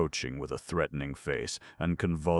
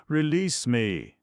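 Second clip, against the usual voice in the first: higher, louder, slow plea; trembling voice; 11 semitones higher, 8 dB louder, slower than usual. A narrator's reading. Ivan Dmitrich pleading with the doctor, slow trembling plea. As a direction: beg to be let go, voice shaking. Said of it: "His voice trembled".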